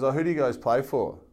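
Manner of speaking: inquiring female barber. Retold or imitated. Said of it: "And she goes".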